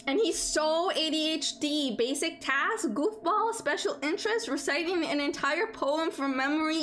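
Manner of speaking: excited. Acted. Excited gushing, high.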